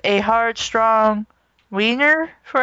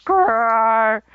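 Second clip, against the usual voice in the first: raspy howl. Acted. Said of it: "a raspy howl came from the closet".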